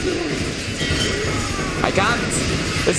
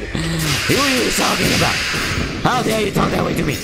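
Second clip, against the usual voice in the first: unhinged villain; 4 semitones higher than usual. Pretend. Villain taunting in game.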